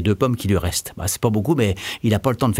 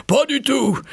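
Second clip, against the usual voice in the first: shrieking, much higher witch voice; 14 semitones higher, slower than usual. A narrator's reading. Witch refuses to let Kiki go, high shriek. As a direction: cut him off like a witch.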